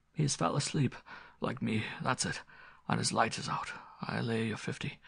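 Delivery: quiet, lightly voiced rustic servant; old butler to himself. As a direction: mutter a private guess as an old servant.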